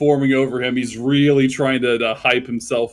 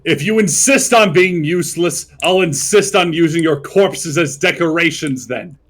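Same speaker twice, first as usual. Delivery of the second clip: threatening; 3 semitones higher, 5 dB louder than usual. Acted. God threatens the players.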